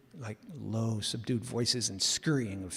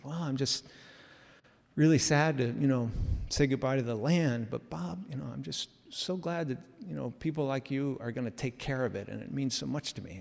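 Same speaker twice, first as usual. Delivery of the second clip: a hint of tears; 4 dB quieter than usual. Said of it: "he was tearing up".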